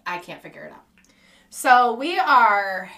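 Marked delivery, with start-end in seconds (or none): 1.5-2.9 lip buzz airplane. Shown as a demonstration. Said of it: "That was my impression of an airplane".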